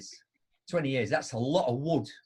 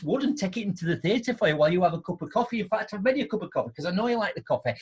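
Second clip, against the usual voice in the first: higher, louder gushing staff voice; mock-grovelling attendant welcomes the regular client; overly polite attendant; 5 semitones higher, 4 dB louder than usual. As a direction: fawn over a valued customer. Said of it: "So what you should be saying is".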